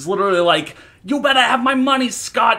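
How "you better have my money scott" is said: put-on heaviest New Jersey accent, very high and loud. Retelling the movie landlord at Scott's door, very strong Jersey accent. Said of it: "the Jerseyest accent".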